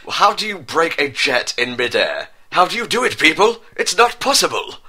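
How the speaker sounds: amused disbelief at the story; incredulous. Real, not acted. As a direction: ask the audience in mock disbelief. Reader mocks absurd plot.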